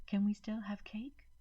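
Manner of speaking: put-on far, whispered child's question; a small hopeful ask; quiet child. A narrator's reading. Emma quietly asking her mommy, small whispered voice. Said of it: "asked quietly".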